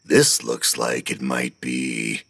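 slow, low, thinking aloud; musing. A narrator's reading. Hogan pondering the platform, slow murmur. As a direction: drift off in thought. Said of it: "Hogan mused".

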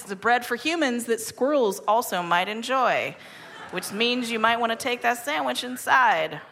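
polished radio ad delivery; sponsor ad read. Real, not acted. Host thanks the bread sponsor before the break, announcer-style ad read. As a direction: read it like a light-hearted live sponsor spot.

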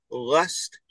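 LUST with a back-of-tongue L; dark, held L opening "lust"; North Jersey L. Retold or imitated. Co-host tries North Jersey words on a doubtful partner, back-of-tongue L. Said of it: "do all North Jerseyans say".

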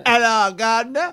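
clumsy copy of a London accent; attempted London accent. Shown as a demonstration. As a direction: try a London accent and miss it. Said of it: "Let me say it".

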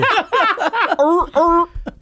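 high-pitched mock seal barks; seal bark imitation. Comic riffing on a seal joke, seal bark imitation. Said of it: "I can imitate one too".

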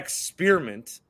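experiment as ex-SPEER-iment; mispronounced. Shown as a demonstration. Host confesses his wrong word, experiment said ex-SPEER-iment. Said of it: "So I say it wrong".

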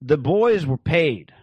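yelling. Retold or imitated. Girl exposing the hired boys to housemates, yelling. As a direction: announce it slowly like a bombshell. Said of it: "she yells".

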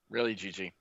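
soft whispered mock scolding; whispered aside. Host scolds Gigi in a whispered aside. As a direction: hiss it under your breath. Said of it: "aside scolding the character".

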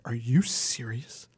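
slow, hushed, whispery disbelief; drawn-out mock-appalled whisper; imitated shaming. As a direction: act out a whispered, incredulous telling-off. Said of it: "he shamed the person so bad".

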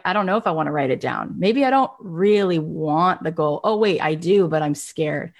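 mild mock fear; mock scared. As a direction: fret like a nervous goal-setter. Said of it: "So you're like".

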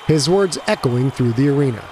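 plain reading voice

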